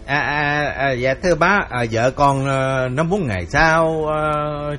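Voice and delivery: hesitant son-in-law. Acted. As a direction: fumble for words, afraid to offend. Son-in-law stammering excuses.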